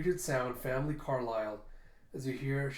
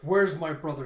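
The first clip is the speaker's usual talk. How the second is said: loud, furious yell; enraged shout; 3 semitones higher, 10 dB louder than usual. Acted. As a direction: roar it as she slams him. Slams him against the wall.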